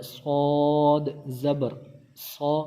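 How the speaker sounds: سود drawn out as a heavy "swaad", ending in a rounded سو; thick sad. Shown as a demonstration. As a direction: spell out سود زبر سو with a dark, full s. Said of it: "موٹا پڑھا ہے".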